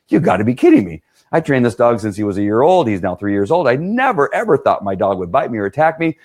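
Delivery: mock outrage at his own dog turning on him; shocked disbelief. Handler stunned his own dog bit him, imitated disbelief. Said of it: "like, going".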